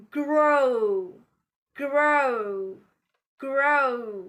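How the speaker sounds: "grow" stretched out with the R sounded after G; pronounced R. Shown as a demonstration. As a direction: sound the R clearly in a long "grow". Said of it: "We do pronounce R after consonant".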